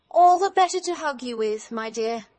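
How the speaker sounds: high, loud reply dropping at the end; wolf as grandmother. A narrator's reading. Disguised wolf answers girl, high emphatic reply. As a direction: sweep down from a high, loud start.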